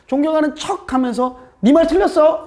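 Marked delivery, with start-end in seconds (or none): 1.6-2.4 a sharp, high, snappy you are wrong; blunt contradiction. Retold or imitated. Subordinate bluntly telling a superior he is wrong, high snappy retort. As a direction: drop the politeness and just contradict. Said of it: "이런 말 하려고 할 때".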